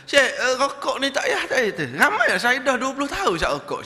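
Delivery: high, loud, laughing through the words; laughing plea. Retold or imitated. Smoker laughing off twenty years of smoking, high and loud. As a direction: beg while giggling.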